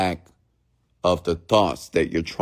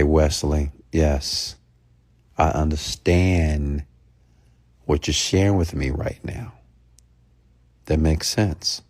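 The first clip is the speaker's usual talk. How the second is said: calm reply; 4 semitones lower than usual. Shown as a demonstration. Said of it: "See, I'm calm".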